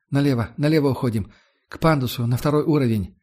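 hoarse through a gas mask; muffled rasp through a mask. Acted. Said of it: "прохрипел из-под противогаза".

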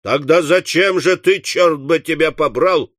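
mildly cross interrogation; understated irate master; angry questioning. Acted. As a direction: demand an explanation with some heat. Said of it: "сердито спросил Уордль".

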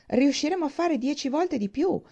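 high-pitched, insistent exclamation; boastful cry. A narrator's reading. Thorpe answering Morland's doubts, high boastful cry. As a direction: overrule the doubter emphatically. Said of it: "gridò Thorpe".

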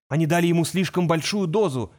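usual speaking voice

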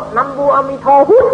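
Teochew-style chant of "นะโมอามิโทพุทธ"; Teochew pronunciation. Shown as a demonstration. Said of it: "ถ้าว่าเป็นเสียงจีนก็".

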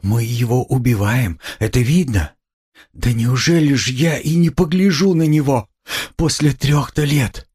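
high, pleading mother on the verge of tears; tearful. A narrator's reading. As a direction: lament it high, slowing at the end. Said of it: "заплакала Пульхерия Александровна".

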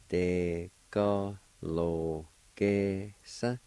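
very slow, stretched syllables. Shown as a demonstration. Teacher sounding out the word for fields, slowly syllable by syllable. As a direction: draw the word out piece by piece. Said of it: "it's pronounced like this".

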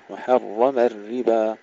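وحرم with a full heavy ر, الربا with a thin ر; heavy and light ra. Shown as a demonstration. Teacher modelling the two kinds of ر in وحرم الربا. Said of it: "الراء هنا مفخمة والربا مرققة".

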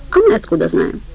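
high indignant retort; how would we know, pitched sky-high. Acted. Heli answers the guards with high indignation.

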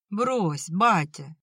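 calm, soothing plea to a father; gently calm him down; peaceable. Acted. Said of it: "миролюбиво произнёс Степан".

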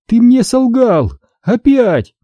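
high, slow and angry. A narrator's reading. Daughter accuses her father of lying, angrily. Astri furious.

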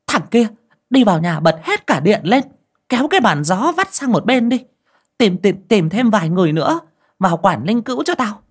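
put-on high, loud commanding old woman; bossy old aunt. A narrator's reading. Old aunt ordering mourners around, high and loud. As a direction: bark orders at the whole household.

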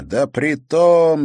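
slow, loud, high angry howl; furious howl. A narrator's reading. Pelt howls at the countess in rage. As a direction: howl it out in fury. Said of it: "яростно взвыл Пельт".

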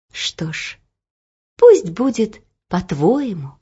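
hushed then slow mirror voice; solemn. Acted. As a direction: give in, grave and slow.

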